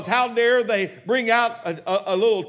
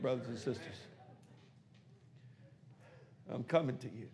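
low and much softer, drawing listeners in; hushed storytelling; 5 semitones lower, 6 dB quieter than usual. Acted. Pastor quietly picturing David marching, low and hushed. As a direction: drop to a near-secret telling.

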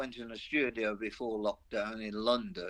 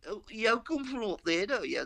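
a lightly voiced Londoner, pitched up; mock Londoner teasing; 10 semitones higher than usual. Londoners teasing the singer about his roots, mildly mocking. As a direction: tease him about the north, lightly. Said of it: "people in London are going".

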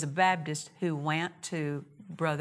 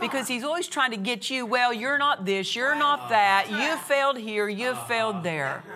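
preach; 4 semitones higher, 3 dB louder than usual. Real, not acted. Preaches, voicing the devil's accusations.

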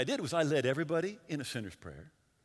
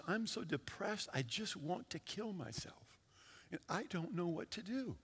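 much softer, as if confiding her hopelessness; hushed retold despair; 8 dB quieter than usual. Preacher voicing a depressed woman's confession, hushed. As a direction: softly quote her despair, understated.

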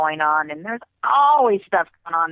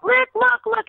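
urgent pleading; 4 dB louder than usual. Retold or imitated. Urging costume ladies to look.

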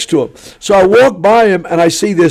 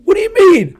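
stunned disbelief; 13 semitones higher, slower than usual. Retold or imitated. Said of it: "I went".

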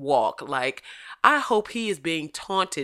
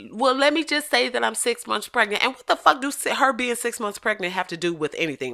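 mocking impression; 7 semitones higher than usual. Mocking the outlet's pregnancy excuse.

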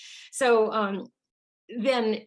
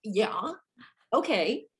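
flummoxed nodding; 3 semitones higher than usual. Retold or imitated. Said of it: "all he did was".

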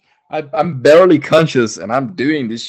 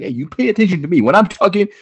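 demanding scolding; 2 semitones higher, faster than usual. Retold or imitated. Acts himself demanding attention.

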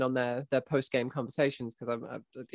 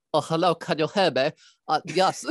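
underwhelming villain. Acted. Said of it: "so underwhelming".

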